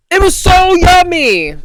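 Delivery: high, loud gushing yummy; excited squeal. Real, not acted. Telling listeners about the Cambodian meal, excited squeal. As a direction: burst out delighted about the food.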